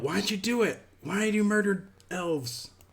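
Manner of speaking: in-character, very high-pitched, shrill shout. During a tabletop game, a player yells in character. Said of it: "I'm gonna yell".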